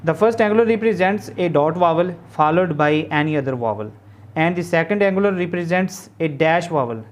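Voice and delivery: word by word, spelled out slowly for notes; slow classroom dictation of a definition. Shown as a demonstration. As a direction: dictate it so students can write along.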